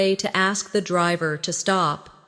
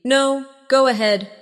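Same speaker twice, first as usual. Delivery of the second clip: friendly answer; 5 semitones higher, 5 dB louder than usual. Shown as a demonstration.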